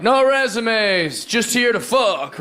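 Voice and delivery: very slow, deadpan parody; slow mock bio read. Man reading out an imagined crude LinkedIn bio, slow and deadpan. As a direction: drag it out word by word.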